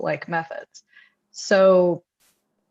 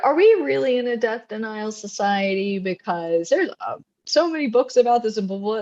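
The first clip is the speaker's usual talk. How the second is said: higher-pitched mock disbelief; incredulous quote, lifted in pitch; mock incredulity; 4 semitones higher than usual. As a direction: imitate people questioning it, pitched up. Acting out people's disbelieving reaction.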